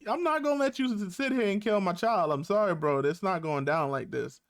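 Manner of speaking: hyped-up bro voice, high and fast at the start; a protective father squaring up, casual slang; imitating Harwin calling out the bully; Harwin telling him off. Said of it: "like, he like".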